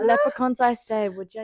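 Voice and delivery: imitating Trisha's silly tavern lilt; mock fairy accent. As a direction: ham up the tavern fairy line. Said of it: "imitating Trisha's tavern voice".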